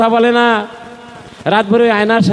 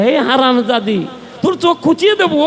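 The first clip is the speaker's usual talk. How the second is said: acted threat; 4 semitones higher than usual. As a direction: threaten a rival in mock fury. Wife threatens her reflection.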